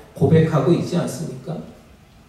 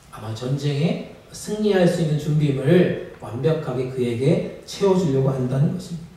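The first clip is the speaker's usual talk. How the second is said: ordinary delivery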